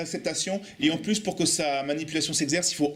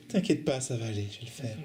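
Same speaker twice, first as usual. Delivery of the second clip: soft, soothing reassurance, trailing lower; all honey, reassure them gently; sweetly accommodating; 5 semitones lower, 5 dB quieter than usual. Shown as a demonstration. Coach showing an actor how to play honey-sweet, sweetly accommodating. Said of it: "t'étais tout gentil, tout miel".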